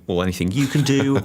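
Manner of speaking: boastful. Retold or imitated. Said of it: "with the M C U going".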